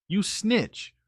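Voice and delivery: slow, high indignation; slow, offended scolding; indignant. Retold or imitated. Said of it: "this look on her face like".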